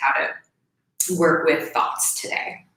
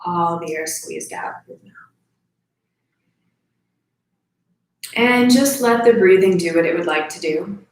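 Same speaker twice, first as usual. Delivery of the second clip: calm, slightly lowered meditation voice with long pauses; guided breathing meditation. Real, not acted. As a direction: lead them gently through each breath, leaving space.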